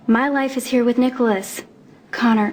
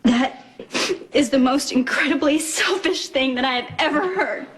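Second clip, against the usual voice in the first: bitter outrage; 6 semitones higher than usual. Acted. Wife furious at his choice.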